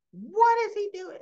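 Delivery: high, loud outraged yell; imitated yelling. Heather yelling about Cyrus being there, imitated outrage. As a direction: shriek the question as an angry accuser. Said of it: "she's yelling, and she goes".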